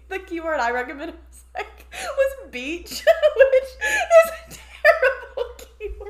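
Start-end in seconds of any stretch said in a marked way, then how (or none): 1.5-6.1 high, slow words through giggles; embarrassed laughter; laughing. Real, not acted. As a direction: laugh at your own blunder. Laughing at her own bad answer.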